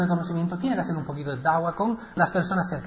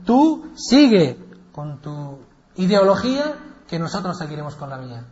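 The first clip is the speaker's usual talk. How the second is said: dismissive crowd; 4 dB louder than usual. Acted. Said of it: "La gente decía".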